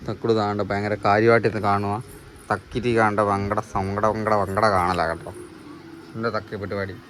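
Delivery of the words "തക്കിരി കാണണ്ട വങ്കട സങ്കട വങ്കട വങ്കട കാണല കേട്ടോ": playful babble. Pretend. Nonsense babble to the child.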